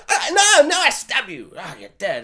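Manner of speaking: hammed-up fighter's outburst, falling off at the end; Angelina Jolie. Acting out a film stabbing, mock frantic cry.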